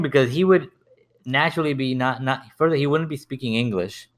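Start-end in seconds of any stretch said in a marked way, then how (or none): none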